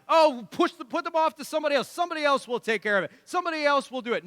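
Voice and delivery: quick brush-off, mimicking the crowd; fast, mocking shrug-off; mocking dismissive voice. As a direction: toss it away like it's someone else's problem. Mocking culture passing the buck.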